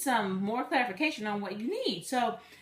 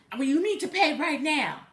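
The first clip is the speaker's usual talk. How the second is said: higher, mildly raised mock demand; angry, antagonistic; 4 semitones higher, 4 dB louder than usual. Scammer demanding immediate payment, mock angry insistence. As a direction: imitate a fussing bill collector. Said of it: "angry and antagonistic and fussing".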